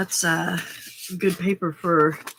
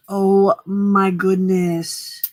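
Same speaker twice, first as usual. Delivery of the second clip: slow, louder admiring gasp of words; drawn-out delight; 6 dB louder, much slower than usual. Real, not acted. Host admiring the corners in a friend's mail, drawn-out delight. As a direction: savour it like a treasure.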